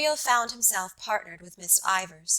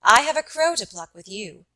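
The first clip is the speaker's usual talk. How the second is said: blunt and sudden, a touch louder; abrupt; 2 semitones higher, 7 dB louder than usual. Acted. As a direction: throw the line at him without warning. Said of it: "she said abruptly".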